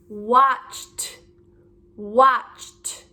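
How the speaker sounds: "watched" with ED as a released t; audible t ending. Shown as a demonstration. Teacher modelling the next word, "watched" ending in crisp t. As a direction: say "watched" alone, t after the ch. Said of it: "Do you hear the t?".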